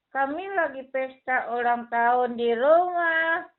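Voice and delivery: a hint of a sulky little boy; light puppet-boy voice, mildly upset; lightly voiced child puppet. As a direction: play the puppet kid, a bit put out. Puppet Billy tells his story.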